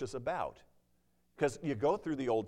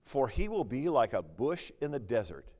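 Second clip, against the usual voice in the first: slow scripture reading; slower than usual. Acted. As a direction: read each phrase slowly and solemnly.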